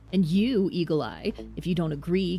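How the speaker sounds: lightly voiced rogue staking a claim; a hint of menace, as a game tough guy; threatening rogue.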